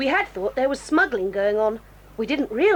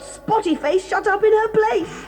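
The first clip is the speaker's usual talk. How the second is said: laughing; 6 semitones higher, slower than usual. Acted. Gleeful plan to trick Sticks.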